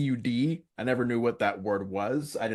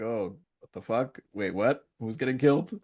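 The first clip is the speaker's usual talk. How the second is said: deadpan cow. Retold or imitated. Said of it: "cow's deadpan reaction, like".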